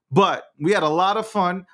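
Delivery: slipping into a Southern accent. Real, not acted. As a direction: talk as if you were Southern. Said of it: "I don't know why I'm talking like I'm Southern".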